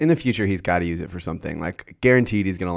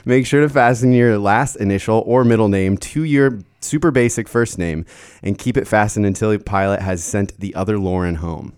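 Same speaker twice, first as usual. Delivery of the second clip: flight attendant voice; 4 dB louder than usual. Shown as a demonstration. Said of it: "flight attendant voice".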